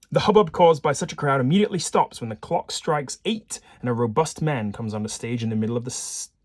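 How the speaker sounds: lively scene-setting read, starting loud; story narration. A narrator's reading. Player reading the case to viewers, lively narration. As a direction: set the scene with punched key words. Reads game text aloud.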